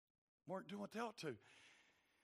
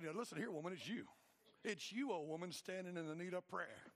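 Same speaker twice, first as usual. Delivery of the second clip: mock quarrel. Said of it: "having a little argument".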